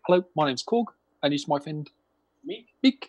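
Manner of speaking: lightly voiced Korg impression; slight imitation of a film character, little change from own voice. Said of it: "what did he play in the film?".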